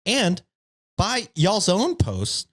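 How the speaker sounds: smug, preachy internet neckbeard. Pretend. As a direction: read it like a smug forum poster. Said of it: "the neckbeard voice".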